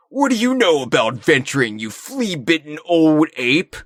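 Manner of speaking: lightly voiced angry yell; half-hearted shout at an old ape; mild yell. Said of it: "yelled Donkey Kong".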